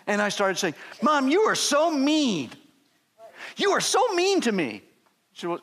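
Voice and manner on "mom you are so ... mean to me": put-on high, slow, whining child's complaint; whiny mad kid. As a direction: sulk it out like an angry sixth-grader. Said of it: "I got so mad".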